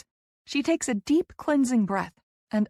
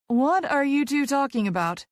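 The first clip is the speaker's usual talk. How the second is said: higher-pitched, puzzled question; confused; 6 semitones higher, 3 dB louder than usual. A narrator's reading. Colleague lost in the conversation, confused and higher-pitched. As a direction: ask it in open confusion. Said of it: "clearly confused".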